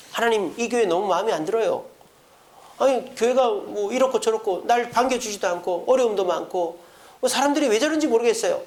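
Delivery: mildly hammed-up grumbling; complaining to God. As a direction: list every gripe to God. Complaining to God about church.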